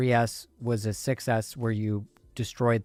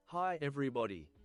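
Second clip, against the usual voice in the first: cheery put-on cartoon doctor voice; 3 semitones higher, 11 dB quieter than usual. Greeting everybody when going live: Doctor Nick voice. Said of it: "like, uh, Doctor Nick from The Simpsons".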